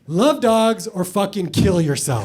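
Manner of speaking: hammed-up demand, love hit hard; mock ultimatum. Exaggerated harsh version.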